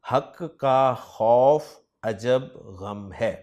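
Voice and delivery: "हक का खौफ अजब गम है" read slowly, each word spaced; slow recital. Shown as a demonstration. Teacher dictates the memory phrase to students, slow and clear. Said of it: "वो जुमला है जी".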